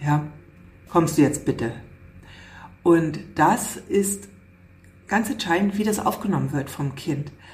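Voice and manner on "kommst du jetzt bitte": bitte falls like a statement. Showing how a request to a child becomes a statement: voice falls on bitte. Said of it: "runtergehen lasse, dann ist es eine Aussage".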